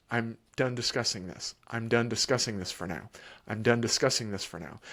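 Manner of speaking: low, even and unhurried; calm repetition. Shown as a demonstration. Parent calmly shutting down argument, low even voice. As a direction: repeat it like a steady metronome. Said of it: "you just say it plainly".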